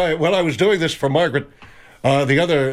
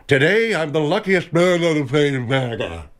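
Lou Gehrig impression. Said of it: "This is Lou Gehrig when he gave the speech".

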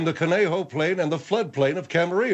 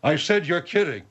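squeaky voice; faster than usual. Acted. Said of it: "What is it with this squeaky voice?".

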